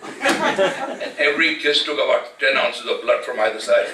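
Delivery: laughing. Real, not acted. Laughing at auntie's kisses.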